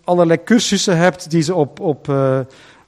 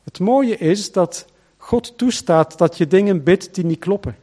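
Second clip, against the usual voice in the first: ordinary delivery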